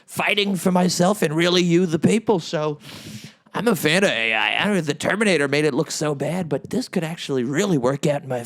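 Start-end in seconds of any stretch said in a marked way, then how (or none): 0.0-2.4 high-pitched noncommittal hedging; evasive dodge. Retold or imitated. Dodging questions through plausible deniability, high evasive whine. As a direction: squirm out of it, higher and evasive. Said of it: "I'll say".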